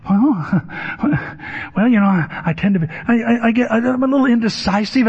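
imitating a stammering, floundering answer; flustered Dave. Dave tries answering the therapist, imitated flustered stammer. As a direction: stumble and restart, pitch creeping up.

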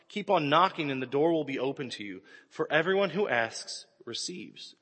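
steady measured Bible reading; scripture reading. Acted. Preacher reading Matthew to the church, measured. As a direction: read the verses to the congregation.

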